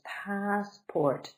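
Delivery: PASSPORT with the weight on PASS; two clear beats, first one stressed; stress on first syllable. Shown as a demonstration. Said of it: "Stress is on the first".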